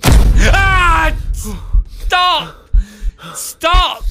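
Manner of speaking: panicked pleading yells; scared shout. Real, not acted. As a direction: beg it to stop in fright. Scared, begging game to stop.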